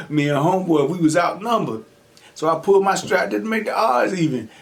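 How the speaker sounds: lightly acted tough guy. Scared kid tells the inmate his crime, lightly acting tough. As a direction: try to sound hard. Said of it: "I said it in the toughest way that I could".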